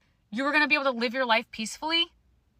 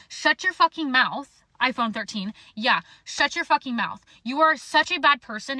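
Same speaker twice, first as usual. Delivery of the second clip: angry snap; 3 dB louder than usual. Real, not acted. Telling ex to shut up.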